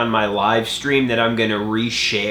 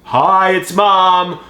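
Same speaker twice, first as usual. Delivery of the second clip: slow, higher mock mom greeting; a hint of mom on voicemail; mom's voicemail; 8 semitones higher, 6 dB louder, much slower than usual. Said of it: "they always say".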